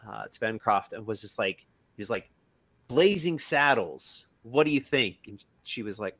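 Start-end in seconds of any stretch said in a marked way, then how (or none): 2.9-5.2 retold excited pitch. Husband pitches new title to wife, retold excitement. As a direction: present a brainwave, lightly acted.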